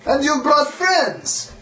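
creature voice. Acted. NPC greeting the party.

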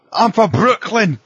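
slow, loud, high mock Scots accent; stereotypical Scotsman. Joking about a Scotsman in Brooklyn, slow loud mock Scots accent. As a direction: drag it out like a kilted Scot. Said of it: "stereotypical Scotsman".

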